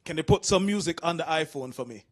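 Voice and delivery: put-on low, earnest old dad asking a favour; lightly voiced dad asking his son for help; dad's request. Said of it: "he said to me".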